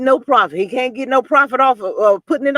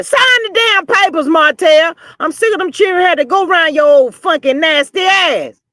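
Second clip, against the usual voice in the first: high, raised order as a fed-up wife; exasperated mock yell; 3 semitones higher than usual. Wife ordering husband to sign divorce papers, exasperated yell. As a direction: bark it like you've had enough.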